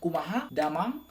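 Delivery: Sundanese greeting with a rising end; Sundanese accent. Shown as a demonstration. Teaching viewers a Sundanese greeting, rising Sundanese lilt. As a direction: lift the last word like a Sundanese speaker. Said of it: "yang memang orang Sunda banget".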